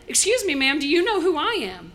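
usher's urgent question, fully voiced; insistent, voiced challenge. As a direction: ask the old lady plainly and pointedly. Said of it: "He goes right up to her".

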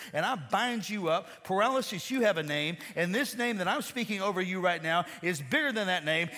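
measured, then building declaration of healing; retold healing prayer. Dad prays over his paralyzed mother, commanding prayer. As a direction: pray with authority, pressing on phrase by phrase. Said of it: "he prays for her".

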